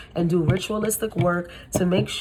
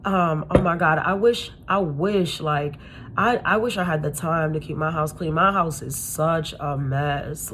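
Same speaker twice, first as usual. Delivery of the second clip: fake self-deprecation; 3 semitones lower than usual. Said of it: "they come to your house and they're like".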